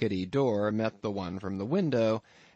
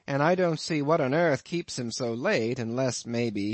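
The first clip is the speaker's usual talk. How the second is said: amused landlord; 3 semitones higher than usual. Acted. Innkeeper teasing his lodger about the harpooneer, lightly voiced. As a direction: spin the tale with a sly chuckle underneath.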